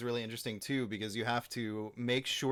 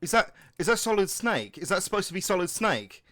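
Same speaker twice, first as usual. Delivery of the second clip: louder, higher, excited reaction; excited fan; 7 semitones higher, 7 dB louder than usual. Retold or imitated. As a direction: gush like an impressed fan. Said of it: "the ones who are like".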